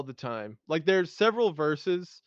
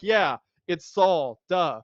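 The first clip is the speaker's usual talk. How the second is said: dismissive; 5 dB louder, slower than usual. Retold or imitated. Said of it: "we'd be like".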